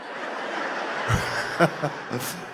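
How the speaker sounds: quiet unvoiced chuckle; a quiet laugh at his own joke; soft breathy laugh. Real, not acted. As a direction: laugh softly to yourself. Audience joke lands.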